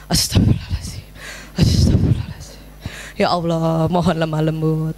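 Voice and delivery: whispered plea to God under the breath; calming istighfar. Shown as a demonstration. Mother steadying herself before scolding her late child, calming whispered prayer. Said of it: "udah tarik nafas".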